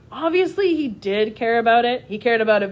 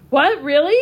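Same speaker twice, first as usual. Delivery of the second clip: high, loud burst of disbelief; excited exclaim; 5 semitones higher, 6 dB louder than usual. A narrator's reading. Boy told he can go to the market, excited exclaim. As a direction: blurt it out thrilled. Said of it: "Oscar exclaimed".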